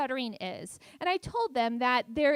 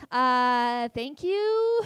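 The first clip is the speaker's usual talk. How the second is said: bemused thanks; 6 dB louder, much slower than usual. Retold or imitated. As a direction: thank them as if unsure it helped. Retold awkward thanks for useless advice.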